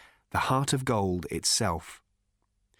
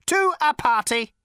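deadly serious robot; 6 dB louder than usual. A narrator's reading. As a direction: say it with total solemnity. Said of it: "in all seriousness".

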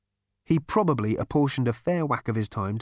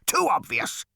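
machine mutter; 9 semitones higher than usual. Acted. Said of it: "muttered the machine".

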